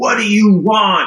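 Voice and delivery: eerie, possessed, demonic voice, very high pitch. Recounting getting an upgrade, the speaker imitates the guy's demonic voice. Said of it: "some demonic voice that came out of him".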